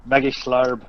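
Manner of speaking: Irish lilt, Dublin style; Dublin accent. Shown as a demonstration. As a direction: say Maggie Schlarb like a Dubliner. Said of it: "the Dublin accent works very well".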